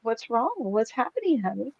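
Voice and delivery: retold concern, hushed; dismayed concern. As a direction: gently ask an upset child what is wrong. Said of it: "I was so dismayed".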